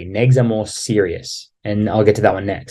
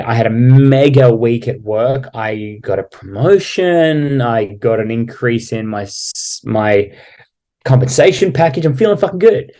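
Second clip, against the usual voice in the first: bragging excitedly. Retold or imitated. Humble brag, acted out.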